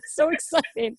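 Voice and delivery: teary. Real, not acted. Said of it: "You're crying".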